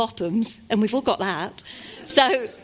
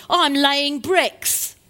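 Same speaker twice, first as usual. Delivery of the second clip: sarcastic; 4 semitones higher, 4 dB louder, much slower than usual. Acted. Sarcastic bricklayer continues.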